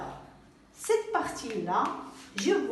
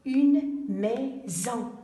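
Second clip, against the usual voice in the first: slow repeat; 3 dB louder, much slower than usual. Shown as a demonstration. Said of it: "Regardons maintenant deuxième mot".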